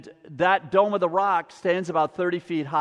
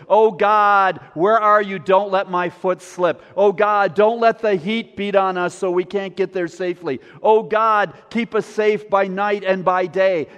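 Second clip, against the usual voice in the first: raised voice, calling out to God; pilgrims shouting psalms; 5 dB louder than usual. Acted. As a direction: cry out a travellers' prayer, pushing "Oh God" louder. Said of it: "they were shouting 'em".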